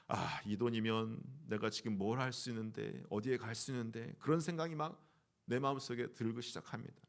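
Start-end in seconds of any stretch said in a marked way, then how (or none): 0.1-4.1 low, softened voice of private thoughts; inner calculating voice. Acted. A churchgoer counting the offering money to himself, low inner voice. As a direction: think it aloud to yourself, low and soft. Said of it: "속으로 계산합니다".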